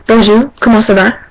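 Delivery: French with a non-native accent; learner's French, simply said; French greeting. Shown as a demonstration. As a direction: greet in not-so-great French. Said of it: "my French accent isn't really that great".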